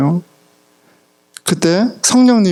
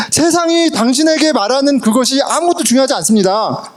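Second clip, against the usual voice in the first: high-pitched, emphatic pulpit delivery; re-enacted preaching, raised pitch settling at the end; sermon proclamation; 6 semitones higher than usual. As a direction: preach it to the congregation, easing down at the close. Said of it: "매번 하는 얘기예요".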